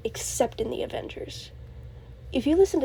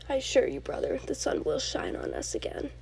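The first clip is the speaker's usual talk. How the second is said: a hushed, lowered take on Loki's farewell; quoting Loki; 3 dB quieter than usual. Retold or imitated. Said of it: "That's a really good quote".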